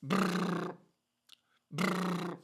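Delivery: brrr with the lips; lip trill. Shown as a demonstration. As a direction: buzz the lips loosely. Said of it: "I just want you to make this sound".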